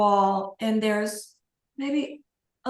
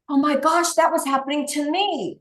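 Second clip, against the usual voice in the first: higher, louder amazed exclaim; excited recognition; 5 semitones higher, 3 dB louder than usual. Retold or imitated. Client realizing the same happened to them, excited. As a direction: blurt it like it finally makes sense. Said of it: "and they go".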